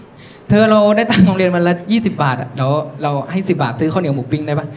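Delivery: low, gentle offer with a small laugh; earnest little suitor. Acted. Boy offering Party his pocket money, earnest.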